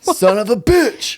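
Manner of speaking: real exasperation at forgetting; frustrated curse. Real, not acted. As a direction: let the annoyance stretch out each word. Can't remember the word, frustrated.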